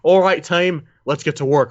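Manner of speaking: mock botched American accent; bad American accent. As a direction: imitate an actor failing at an American accent. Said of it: "he can't do an American accent".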